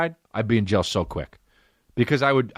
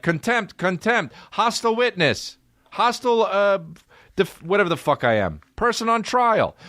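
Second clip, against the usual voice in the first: mock judge; 11 semitones higher than usual. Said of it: "they'd be like".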